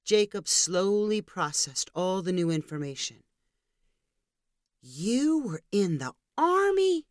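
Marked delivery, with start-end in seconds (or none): 4.8-7.1 put-on higher, slow curious little boy; child voice. A narrator's reading. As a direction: ask like a small kid. Child asking father.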